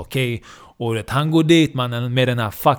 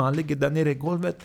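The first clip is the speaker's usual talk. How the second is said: ordinary delivery, nothing marked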